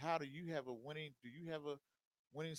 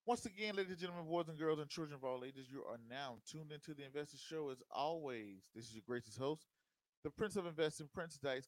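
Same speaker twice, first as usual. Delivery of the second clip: ringmaster. Acted. Show intro to viewers.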